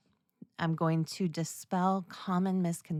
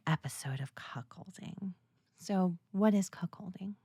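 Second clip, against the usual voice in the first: soft teasing whisper; 4 dB quieter than usual. Acted. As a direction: whisper it like a secret.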